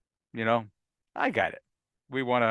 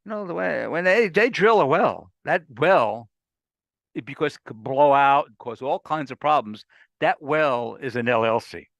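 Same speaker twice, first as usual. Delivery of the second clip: Texas drawl; 2 semitones higher than usual. Retold or imitated. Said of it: "in his good old Texas drawl".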